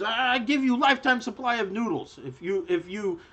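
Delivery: lightly voiced high gnome merchant; hint of a pleading gnome seller; bargaining gnome woman. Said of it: "she says".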